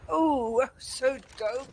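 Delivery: loud, high burst of hype; excited outburst. Real, not acted. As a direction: shout the hype out over the play. Caster reacting to a flick.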